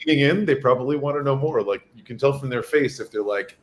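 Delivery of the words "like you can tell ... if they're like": losing voice. Real, not acted. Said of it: "I'm losing my voice".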